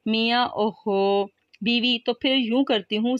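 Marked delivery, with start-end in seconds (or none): 0.5-1.2 slow, drawn-out groan of a sick man; pained groan. Acted. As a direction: stretch the oho out like it hurts. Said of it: "میاں ہوں کراہتا ہے". (کراہتے ہوئے اوہو)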